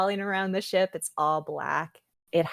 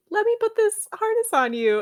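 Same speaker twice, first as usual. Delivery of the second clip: put-on much higher, louder baby-talk coax; sweet coaxing; 6 dB louder than usual. Lawrence coaxing the baby dragon into the harness, cooing high. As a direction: coo it like talking to a puppy.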